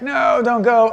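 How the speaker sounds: high, loud plea; loud high-pitched no, don't go; pleading parent. Retold or imitated.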